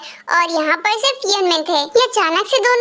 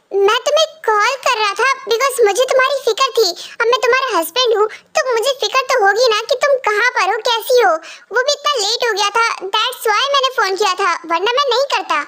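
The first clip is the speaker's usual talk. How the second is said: higher, fast, hurt and irritated; angry husband; 4 semitones higher, faster than usual. Acted. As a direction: snap back at your wife, fast and higher. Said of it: "तुम गुस्सा क्यों हो रहे हो". (नाराज़ पति की तरह, तेज़ और ऊँची आवाज़ में)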